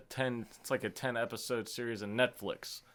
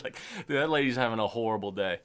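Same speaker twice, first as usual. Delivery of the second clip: ordinary talk, nothing marked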